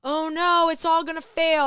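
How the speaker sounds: high, loud mock panic; anxious inner voice. Host voicing her own anxiety about failure, mock panicked. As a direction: wail it like an inner voice catastrophizing. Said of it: "there was this anxiety of like".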